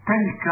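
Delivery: تلك with an a after the t, "talka"; fatha variant. Shown as a demonstration. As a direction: give تلك a short a in its first syllable. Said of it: "بفتح التاء لغة رديئة".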